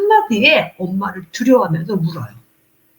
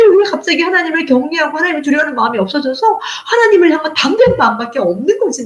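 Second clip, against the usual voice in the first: usual speaking voice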